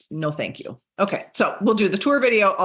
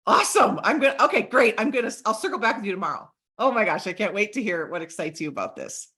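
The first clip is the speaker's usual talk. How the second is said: rhino energy; 2 semitones lower, faster than usual. Shown as a demonstration. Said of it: "charge, have some rhino energy and be like".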